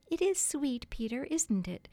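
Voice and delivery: high-pitched, mildly gratified wife. A narrator's reading. Wife to husband by the fire, mildly gratified. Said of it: "frightfully gratified".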